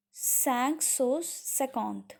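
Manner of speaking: "cinq cent cinquante" very slowly, word by word; slow, separated words in "cinq cent cinquante"; French pronunciation demo. Shown as a demonstration. Teacher models a French number.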